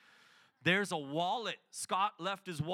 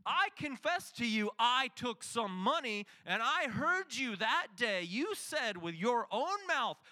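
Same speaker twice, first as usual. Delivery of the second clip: raised, louder self-justifying plea; defensive pleading; 3 semitones higher, 3 dB louder than usual. Retold or imitated. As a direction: argue your case back, indignant. Defending himself to angry Scott.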